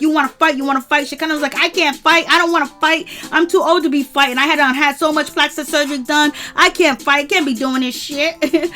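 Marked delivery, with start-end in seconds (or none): 0.0-1.1 higher, louder mock taunt; hammed-up dare to fight; mock challenge. A singer challenges Shakana to fight. 1.6-8.7 higher, louder whiny protest; imitating a flustered older woman backing out; mock panicked plea. Shakana pleads she can't fight.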